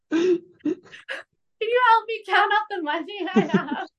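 slow, high dopey voice breaking into laughter; hammed-up helpless whine, dragged out; mocking Archie. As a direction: make fun of him, cracking up. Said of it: "couldn't help but come for Archie".

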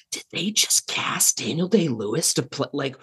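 mock-incredulous viewer, pitch jumping up; baffled disbelief. Modern viewer watching Daniel Day-Lewis, mock bafflement. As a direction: act out bewildered questioning, rising high.

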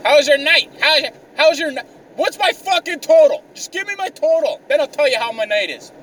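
mocking the clerk, then snapping. Ranting at the clerk who asked about his night, mocking and snappy. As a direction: ridicule her question, then bark for the total.

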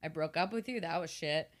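low, soft guilty mumble; quiet mopey confession. Retold or imitated. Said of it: "Jughead's just like".

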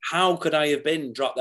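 retold "why me" protest; indignant disbelief. Actor recalling being dropped by his agent, indignant.

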